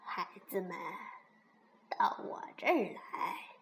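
soft, low granny voice; kindly chuckling granny. A narrator's reading. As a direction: gently call the children over. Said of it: "熊婆婆笑呵呵地说". (慈祥地轻声招呼)

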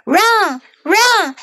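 high, sing-out taunt; taunting gingerbread man. A narrator's reading. Gingerbread man taunts the chasing old couple, high-pitched. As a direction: tease the chasers in a high voice. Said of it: "laughed and said".

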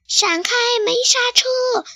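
high shout from above. Acted. Chick on the runaway carpet shouting a warning below. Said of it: "贝里奥朝下大喊".

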